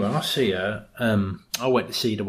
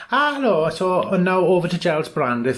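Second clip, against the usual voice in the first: higher, chirpy TV presenter link; bright presenter link; 4 semitones higher than usual. Retold or imitated. Alice cheerily linking to Giles Brandreth on air. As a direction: sell it like a live link. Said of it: "Alice is doing her links".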